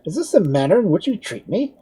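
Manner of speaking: high, loud breathless rage; furious scolding. A narrator's reading. Fat alcalde condemning the doctor, enraged. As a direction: berate him without pause. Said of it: "cried he".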